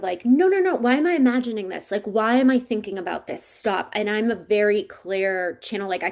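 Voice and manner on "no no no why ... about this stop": alarmed denial. Retold or imitated. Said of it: "in this space of".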